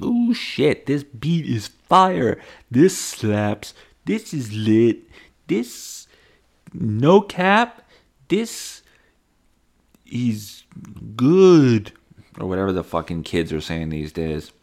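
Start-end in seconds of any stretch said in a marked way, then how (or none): 0.0-11.9 high, loud mock-hype slang; hyped reaction. Hearing a song online, hammed-up high hype. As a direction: gush like a teen over the beat. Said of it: "And I was like".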